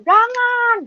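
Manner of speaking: high pleading no; wished-for plea. Pretend. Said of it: "saya inginnya ada yang melarang".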